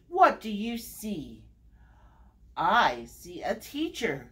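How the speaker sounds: sing-song read-aloud, each repeated name stepping down; story time refrain with falling line ends; picture-book reading. Acted. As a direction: read to little ones with lilting, measured phrasing. Reads picture book to children.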